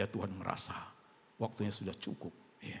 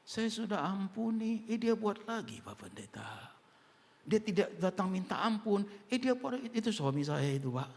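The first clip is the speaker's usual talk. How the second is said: complaining wife voice; 11 semitones higher, 4 dB louder than usual. Retold or imitated. Voicing complaining church member.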